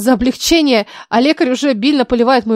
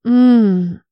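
weak moan. Acted. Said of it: "невнятное мычание".

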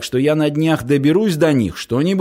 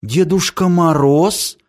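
surprised; 4 semitones higher than usual. Acted. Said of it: "удивилась девчушка".

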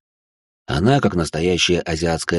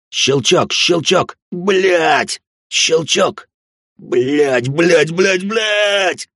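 building panic; 9 semitones higher, much slower than usual. Acted. Hunter panicking as his gun keeps jamming. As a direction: curse faster and higher as the gun jams.

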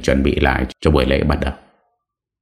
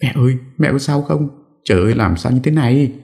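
crying out; 10 semitones higher than usual. A narrator's reading. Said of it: "cô bật khóc".

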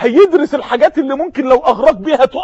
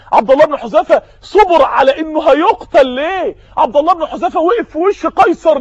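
rhetorical shout; 4 semitones higher than usual. Real, not acted. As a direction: call out the question to the whole hall. Preacher's rising rhetorical questions.

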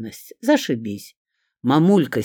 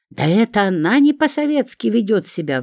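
indignant retort; 8 semitones higher, 4 dB louder than usual. A narrator's reading. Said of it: "возмутилась Шурка".

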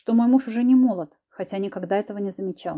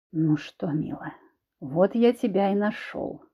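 menacing; slower than usual. Acted. Husband menaces cornered wife.

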